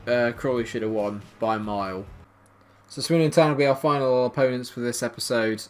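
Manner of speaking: ordinary talk, nothing marked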